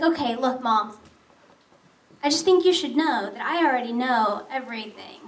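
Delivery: serious daughter. Retold or imitated. Daughter having a talk with Mom, seriously. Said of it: "my daughter's looking at me serious".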